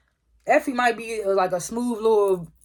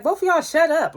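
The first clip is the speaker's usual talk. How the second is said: high-pitched mock yell, only a little louder; imitated yell; 9 semitones higher, 3 dB louder than usual. Diana to two bickering lawyers, imitated yell. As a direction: pitch it right up, retelling her outburst. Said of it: "she yells".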